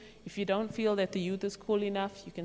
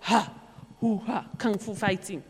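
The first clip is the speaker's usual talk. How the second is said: kung fu shouts. Shown as a demonstration. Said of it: "get some exercise".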